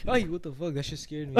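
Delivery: sudden jolt of fright; startled. Real, not acted. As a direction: caught off guard, high.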